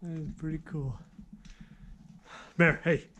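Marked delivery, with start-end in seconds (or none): 2.6-3.1 sharp call to the dog. Real, not acted. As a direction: call the dog back, loud. Calling dog back in mine.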